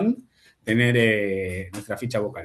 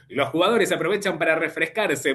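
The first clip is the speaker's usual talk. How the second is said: lightly voiced sports commentator; a brighter announcer read, projected out; a hint of a football caster; 5 semitones higher than usual. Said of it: "Como la del locutor de fútbol".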